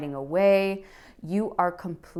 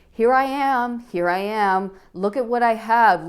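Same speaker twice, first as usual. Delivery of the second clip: louder and higher, boldly announcing herself; proud declaration; 4 semitones higher, 5 dB louder than usual. Acted. Reader voices the Queen of Wands proudly, loud and high. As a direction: proclaim it like the queen showing off.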